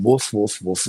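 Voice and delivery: light mock dog barks; small woofs. Hookers barking like small dogs for a drunk client, light woofs. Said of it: "these Sheilas are crawling around going".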